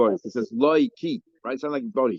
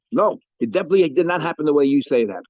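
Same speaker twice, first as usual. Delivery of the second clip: firm, louder emphatic denial; 5 dB louder than usual. Acted. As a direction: flatly deny it, with force. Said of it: "is very emphatic".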